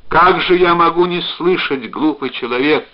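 high, loud, emotional reproach; understated tearful exclamation; tearful outburst. A narrator's reading. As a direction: scold fondly through tears. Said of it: "рыдая навзрыд, сказала она".

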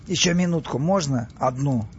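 mildly pleading, plaintive request. Acted. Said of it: "он жалобно попросил". (жалобно, просительно)

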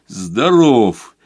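ordinary delivery, nothing marked

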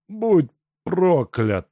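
high, slow, hate-filled curse; hateful curse. Acted. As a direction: spit the curse at the torturer. Сенька проклинает палача. (медленное проклятие с ненавистью)

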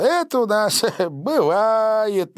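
laughing it off, slowly; embarrassed laugh. A narrator's reading. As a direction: chuckle through the excuse. Смущённое объяснение со смехом. (смущённый смешок)

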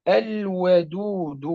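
الودود very slowly, lam sounded clearly before the و; clear lam demo. Shown as a demonstration. Teacher demonstrating the clear lam before waw, very slow. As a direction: draw out الودود, keeping the lam distinct. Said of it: "نأخذ مثلًا واء".

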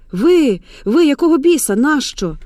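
high, loud, indignant demand; startled and furious; shocked outburst. A narrator's reading. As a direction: throw the question at the intruder. Shocked woman confronts grandmother.

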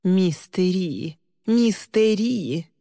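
slow, sing-song mimicry of Lee; teasing parrot of the girl's plea; mocking imitation. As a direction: drag out the name to taunt her. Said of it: "Она стала передразнивать Ли".

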